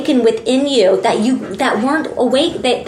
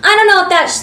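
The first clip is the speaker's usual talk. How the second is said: doubting Virgo; 6 semitones higher than usual. Acted. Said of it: "And he goes".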